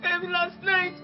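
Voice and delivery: quiet, tearful telling of bad news; tearful plea. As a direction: hold back sobs while explaining. Tearful niece begging for help.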